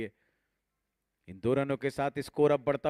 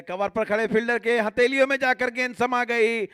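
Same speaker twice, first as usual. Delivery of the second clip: excited cricket commentary; 5 semitones higher than usual. Real, not acted. Wicket falls in live commentary.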